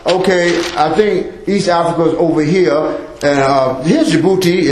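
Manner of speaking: lightly mocking a man who doesn't know the way; unsure guide. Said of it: "he going to map like that".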